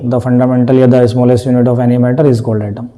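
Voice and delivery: slow, formal recital of a textbook line; teacher reciting a definition. Retold or imitated. A teacher dictating the atom definition, slow and formal. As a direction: spell out the definition word by word like a sir in class. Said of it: "sir कैसे बोलेंगे कि atom".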